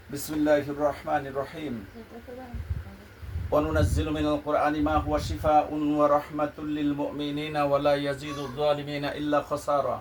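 slow, drawn-out chanted verses; slow Quran recitation. Real, not acted. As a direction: recite slowly, stretching each phrase.

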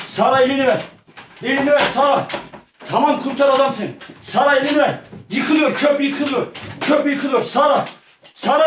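high, urgent, pleading calls; panicked rescue pleas. Pretend. Gamer urging Sara to grab his hand, panicked high pleading. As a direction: beg her to grab your hand before the bridge falls.

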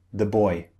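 put-on "The" reduced to a light "thuh" before a stressed "boy"; unstressed THE. Shown as a demonstration. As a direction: pass quickly over "The", land on "boy". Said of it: "The is very unstressed".

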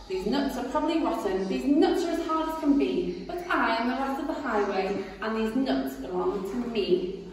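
loud swaggering highway robber; boastful rat. Acted. Rat demanding the rabbit's cakes, swaggering. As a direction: demand it like a bully. Rat's scorn.

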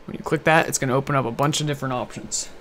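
talking while chewing apple; biting an apple. Real, not acted. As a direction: mouth full of apple. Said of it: "Sorry, I'm eating an apple".

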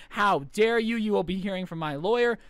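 half-hearted mock yelling; mock scream. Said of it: "the mom starts screaming".

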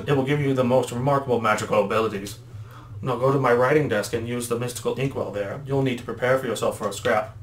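lightly voiced old adviser; a hint of a kindly elder instructing; Elder Kettle. Elder sends the boys to practise, lightly put-on voice. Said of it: "when I do Elder Kettle's voice".

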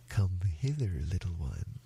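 low, coaxing crocodile; luring crocodile. Acted. Crocodile lures the little elephant in, low and coaxing.

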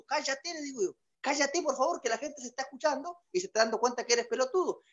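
quiet embarrassed telling-off; hushed scolding. Acted. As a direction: shush him so nobody hears. Hushing friend on plane.

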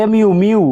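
"এমইউ, মিউ" উঁচু, জোরালো গলায় ভেঙে বলা; "মিউ"-তে লম্বা ইউ ধ্বনি; ইউ উচ্চারণ দেখানো. Shown as a demonstration. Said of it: "ইউ উচ্চারণ". (শিক্ষকের মতো "এমইউ" বানান করে "মিউ" বলা)

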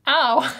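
sharp real yelp of pain. Real, not acted. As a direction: cry out as the tongue hurts. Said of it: "I just bit my tongue".

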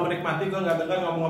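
talking while licking fingers; fingers at the mouth. Real, not acted. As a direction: hand muffling the lips. Seen 0: left speaker talks with fingers pressed to his lips; chewing unclear.

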